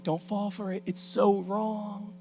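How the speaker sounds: soft, drawn-out caution; hushed warning. Acted. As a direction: quietly urge them away from temptation. Wisdom's warning, set against loud excuse.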